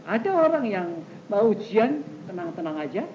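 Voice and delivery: easy, unruffled delivery; relaxed and matter-of-fact; calm. Acted. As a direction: say it as someone untroubled.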